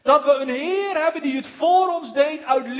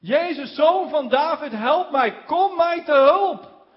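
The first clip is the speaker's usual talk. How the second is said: raised voice, the last plea louder and higher; pleading call, building louder; calling out for help; 3 semitones higher, 5 dB louder, slower than usual. Retold or imitated. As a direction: cry out to Jesus from the roadside. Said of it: "Hij begint te roepen".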